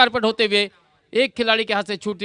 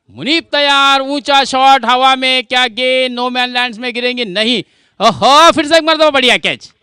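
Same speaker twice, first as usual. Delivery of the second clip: rising, shouted play-by-play call; excited cricket commentary; 6 semitones higher, 10 dB louder than usual. Real, not acted. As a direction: yell the catch, high and loud. (उत्साहित cricket commentary)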